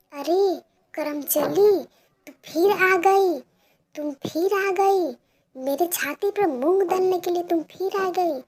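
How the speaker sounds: high, loud contemptuous scolding; angry mother. Acted. Mother scolding Pinky for coming back, furious. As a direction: curse her for coming back.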